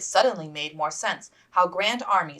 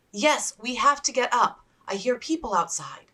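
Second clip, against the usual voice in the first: a hint of a firm young lady; lightly voiced Elizabeth; 7 semitones higher, 5 dB louder than usual. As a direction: gently rouse a sleepy sister.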